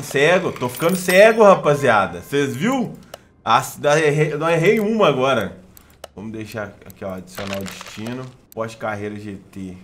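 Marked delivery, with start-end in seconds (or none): 0.0-5.6 excited shout. Real, not acted. Shouting excitedly at near miss.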